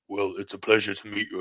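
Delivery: put-on bass voice; Big Tone. Friend greeting a wrestler he admires, imitated bass voice. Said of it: "in his Big Tone bass voice".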